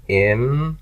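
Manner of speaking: Imanu, each syllable held and set apart. Shown as a demonstration. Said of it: "There's my nu ending".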